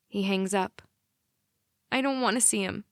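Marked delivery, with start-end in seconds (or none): 1.9-2.8 whiny. Acted. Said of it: "I sound like a whiny five-year-old".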